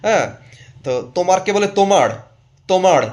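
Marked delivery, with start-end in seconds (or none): 1.8-3.0 তোমার said "tomaṛ", final R turned into a flap; modern band pronunciation. Retold or imitated. Mimicking band singers trying to sound modern, তোমার as "tomaṛ". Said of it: "তারা রকে র উচ্চারণ করে".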